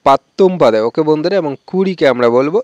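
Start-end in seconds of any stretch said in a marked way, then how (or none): 0.1-0.8 পাত্তুম পদে with a firm doubled t; t sound. Shown as a demonstration. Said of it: "এখানে ত উচ্চারণটাই হবে".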